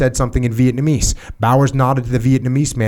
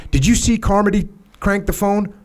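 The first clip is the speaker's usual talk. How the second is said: voiced protest; 9 semitones higher than usual. Narrator protests to the major.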